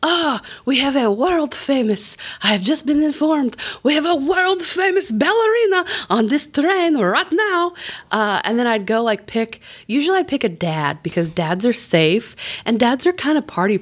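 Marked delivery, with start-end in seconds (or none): 0.0-7.6 raised, showy announcer voice on the train PA; hyped conductor announcement. Acted. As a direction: announce it like a conductor selling a big act.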